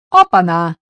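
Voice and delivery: put-on drunken loud exclamation; slurred tipsy shout of surprise. A narrator's reading. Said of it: "воскликнул тот пьяным голосом".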